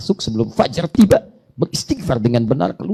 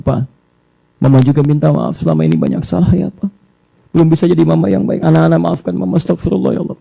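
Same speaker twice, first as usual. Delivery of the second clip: wife's apology; 3 semitones higher, 5 dB louder than usual. Pretend. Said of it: "Istrinya mengatakan".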